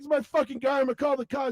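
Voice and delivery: high mock-irate threat; angry old man. Old man threatening Cartman with police, mock anger. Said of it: "the old man".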